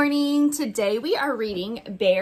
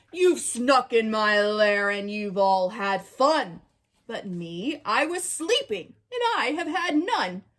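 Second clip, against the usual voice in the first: grumpy bear voice. Acted.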